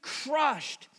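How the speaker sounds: slow weary lament. Retold or imitated. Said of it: "he also said".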